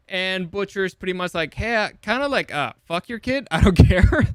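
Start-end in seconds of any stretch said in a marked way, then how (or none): 1.5-4.3 flippant line breaking into a loud laugh. Retold or imitated. Imitating Butcher dismissing Becca, laughing loudly. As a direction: toss it off and laugh through the end.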